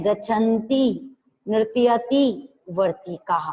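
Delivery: slow demo reading of Sanskrit words; careful pronunciation. Shown as a demonstration. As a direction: model each word slowly for pupils to repeat. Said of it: "ऐसे आपको बोलना है".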